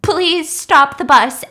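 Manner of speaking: weak, drawn-out plea; slow pleading. Retold or imitated. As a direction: drag it out, pleading. Sick friend pleading slowly.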